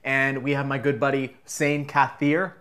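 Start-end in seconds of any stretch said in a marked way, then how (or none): 1.4-2.5 name rushed through quickly; too fast. Real, not acted. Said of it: "I said that too fast".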